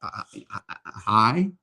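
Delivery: halting, stuck mock-nervous hi; nervous stammer. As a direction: stammer like a shy man stuck on hello. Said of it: "he can't even hardly figure out how to".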